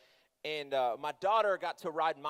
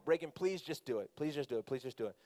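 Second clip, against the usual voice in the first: pleading; 3 semitones lower, 4 dB quieter than usual. Retold or imitated. Dad begging daughter, repeated plea.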